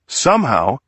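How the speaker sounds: courtroom appeal to the jury, lightly voiced; defense lawyer's plea.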